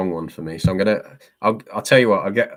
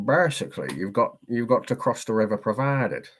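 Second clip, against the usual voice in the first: put-on Yorkshire accent, swooping pitch; 3 semitones higher than usual. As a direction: do a Yorkshire local explaining something. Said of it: "Yorkshire's easy".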